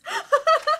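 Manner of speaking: loud, high burst of laughter; high-pitched cackling laugh. Real, not acted. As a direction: burst out laughing, knowing the joke. Amused by the straws.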